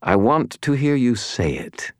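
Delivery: high, smug villain; smirking. A narrator's reading. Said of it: "He smirked".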